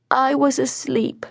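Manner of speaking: put-on high-pitched little boy; child's voice. A narrator's reading. Son to his doting mother, child's voice.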